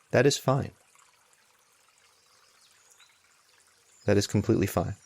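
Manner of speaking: unhurried meditation guidance with long pauses; spacious, measured mindfulness instruction; guided meditation. Real, not acted. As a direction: guide them gently, leaving long silences between phrases.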